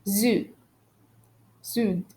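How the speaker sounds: French "sud" with the final D sounded; pronounced D. Shown as a demonstration. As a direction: let the D be heard ending "sud". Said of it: "we pronounce the letters D and T".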